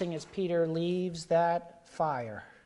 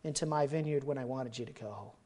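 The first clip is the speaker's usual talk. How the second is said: the Lord's tender call. Retold or imitated. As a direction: tenderly call him back. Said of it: "the Lord to come to him and say".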